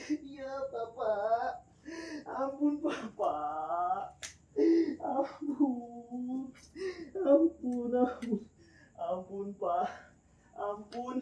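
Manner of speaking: slow, drawn-out sobbing for mercy; crying plea. Acted. Thief begging the angry villagers, slow tearful pleading. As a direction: drag each plea out like a weeping man.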